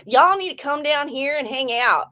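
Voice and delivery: lively southern-drawl invitation. Retold or imitated. Inviting a friend down to hang out, in a southern drawl. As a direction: lean into a picked-up southern drawl. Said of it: "What is with the drawl?".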